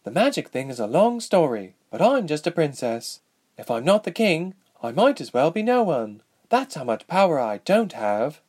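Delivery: lightly acted, frustrated princess voice; young princess, resigned. A narrator's reading. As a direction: admit how powerless you are.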